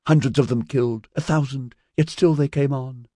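mock an old doomsayer's dire tale; mocking doom prophet. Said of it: "Don't mock so".

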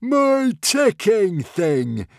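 very high, slow, gleeful squeal of delight; delighted cry. Acted. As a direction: crow over the recovered treasure like a giddy madman. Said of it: "cried Norbert delightedly".

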